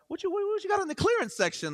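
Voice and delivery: high, stammering mock panic; comic price shock. Dad turns over shoe to see price, high flustered panic. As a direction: stumble over it in a high, startled voice.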